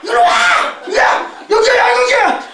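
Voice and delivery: high-pitched hollering imitation; loud tourist yelling. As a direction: holler to friends like a noisy tourist. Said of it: "말소리도 뭐 별로 큰 것도 아닌데". (시끄러운 관광객처럼 높게 고함치기)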